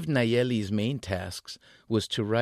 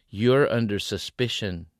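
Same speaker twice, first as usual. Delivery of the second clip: sneering; 6 dB louder than usual. Acted. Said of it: "he sneered".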